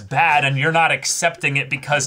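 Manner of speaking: sarcastic retort. Retold or imitated. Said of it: "I was like".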